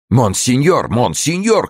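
very high, calling out; urgent shout. A narrator's reading. Gourville running upstairs to monseigneur, shouting. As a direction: hail him in breakneck haste. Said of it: "крикнул Гурвиль, торопливо взбегая".

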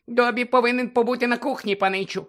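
Dobby the house-elf squeaking at Harry; squeaky house-elf. Acted. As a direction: squeak it like an anxious little elf. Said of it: "запищав він".

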